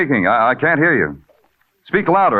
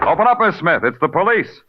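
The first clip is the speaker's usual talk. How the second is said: raised voice through the door; police call at door; 5 semitones higher than usual. Acted. Cop pounding at door.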